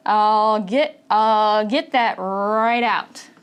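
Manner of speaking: slow, no T in get or that; linked without the T, slowly; slow demo. Shown as a demonstration. Teacher slowing down the reduced phrase. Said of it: "you might notice there's no T".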